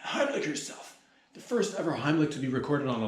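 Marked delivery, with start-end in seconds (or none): 0.0-1.0 blurted out through a real laugh, higher. Real, not acted. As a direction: crack up on the line. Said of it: "let's do that again".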